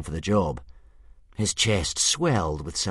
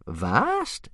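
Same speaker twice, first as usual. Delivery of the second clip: high, rising eager interjection; happy interruption; 7 semitones higher than usual. A narrator's reading. Old Wrinkly breaks into the chief's speech, happily. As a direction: cut in gleefully. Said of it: "interrupted Old Wrinkly happily".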